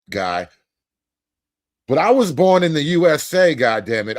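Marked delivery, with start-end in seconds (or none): 1.9-4.2 belting the line out loud, half spoken; louder mock rock anthem cry; rock-star shout. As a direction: shout it like a fan at a concert. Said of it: "don't make me get on my Springsteen shit".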